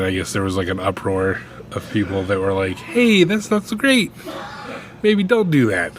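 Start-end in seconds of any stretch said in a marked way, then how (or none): 2.8-5.9 objecting shout. Retold or imitated. People in an uproar objecting.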